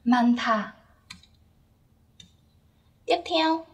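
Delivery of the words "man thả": "Man thả" with an aspirated TH, like a breathy t; bật hơi. Shown as a demonstration. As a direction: say "Man thả", releasing a puff of air on "thả". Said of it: "nối lên chữ tờ và đọc thành thả". (đọc "Man thả", bật hơi ở âm "th")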